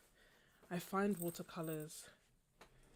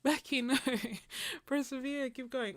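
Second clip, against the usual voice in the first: laughing; 8 semitones higher, 9 dB louder than usual. Real, not acted. Laughing at a viewer's comment.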